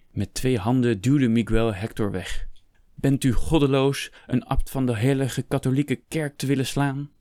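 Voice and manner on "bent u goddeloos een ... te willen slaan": higher, appalled outcry; raised, outraged challenge; indignant shouting. A narrator's reading. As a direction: shout in shocked reproach. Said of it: "schreeuwde hij".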